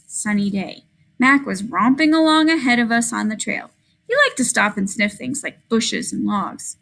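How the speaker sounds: lively storybook read with voiced characters; expressive reading aloud. Shown as a demonstration. Teacher modelling expressive reading to students. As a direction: read it with feeling for the class. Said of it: "you could really hear the punctuation".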